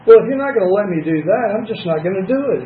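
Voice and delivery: quick, mildly huffy retort; indignant huff. Retold or imitated. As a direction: toss it back in a mock huff, fast. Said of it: "I huffed".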